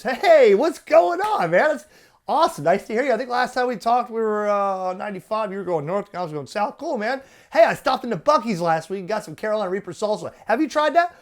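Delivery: breezy buddy on the air; mock friendly radio chat; friendly ham chatter.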